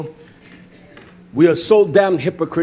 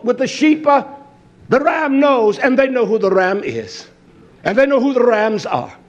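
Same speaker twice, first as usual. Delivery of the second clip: raised, emphatic sermon delivery; insistent preaching; 7 semitones higher, 3 dB louder than usual. Real, not acted. Preacher on goats, sheep and the ram, insistent proclamation. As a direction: press each point on the congregation.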